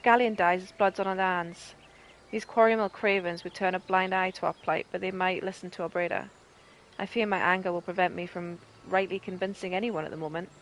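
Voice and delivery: a hint of a proud, gruff rebel leader; mild acted captain, close to own voice; lightly voiced captain Meffred. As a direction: read it like a weary soldier. Continues Meffred's plea.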